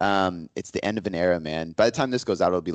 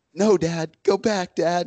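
put-on play-acted child's scream, very high, slow, drawn-out; 11 semitones higher than usual. A father retells his daughter's reaction as he takes her out of the office, imitating her screaming. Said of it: "she's screaming".

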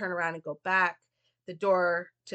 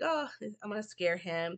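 mock delivery with giggles running through; 5 dB quieter than usual. Retelling a movie scene where Lisa hides a doll to scare Jamie: imitating Lisa giggling.

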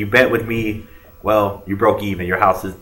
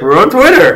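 mock astonished shout, very high and loud; 11 semitones higher, 8 dB louder than usual. Mimicking how someone always says they're on twitter, mock-surprised. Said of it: "Every time you say that, you sound surprised. You're like".

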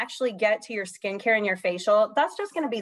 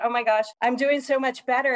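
normal talking voice

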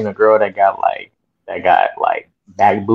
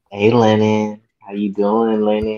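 slow, drawn-out delivery. Acting out an imagined phone call for the others: imitating Len on the phone. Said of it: "This is how he's gonna do on the phone call".

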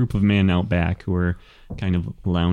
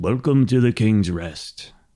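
rough, gruff voice; 3 semitones higher than usual. Voicing the bartender greeting newcomers at the King's Rest: gruff bartender voice. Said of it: "he kind of gruffly says".

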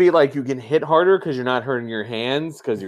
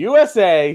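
usual speaking voice

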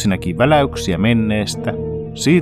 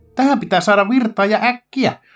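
shrieking, screeching, much higher pitch; 11 semitones higher than usual. Alisa looks at the meter and shrieks. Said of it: "kiljui Alisa".

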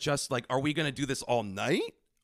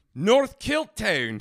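fake Scottish accent, higher and louder; 7 semitones higher, 6 dB louder than usual. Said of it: "I committed and started talking to her".

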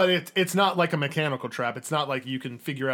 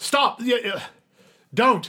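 in-character yell, much higher pitch; 10 semitones higher, 6 dB louder than usual. In a game scene, voicing the character Marantha as she yells stop. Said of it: "Marantha will yell like".

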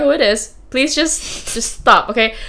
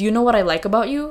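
playful, mock-teasing tone; 4 dB quieter than usual. Telling friends what a guy said while they looked at tigers, retelling playful teasing. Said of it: "he was just like teasing".

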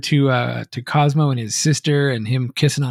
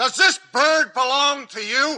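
put-on yelling, higher; 11 semitones higher than usual. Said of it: "the police officer just yells that line".

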